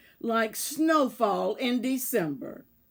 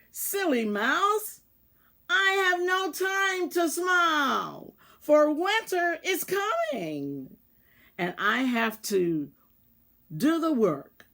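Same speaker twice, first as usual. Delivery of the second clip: grumpy mouse voice; 5 semitones higher than usual. Acted. Grumpy mouse brushes off the others.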